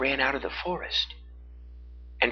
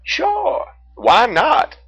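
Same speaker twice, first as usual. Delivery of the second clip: high, bright encouragement; breezy, urging her on; cheerful bear; 8 dB louder, much slower than usual. A narrator's reading. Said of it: "Teddy the Brown Bear asked".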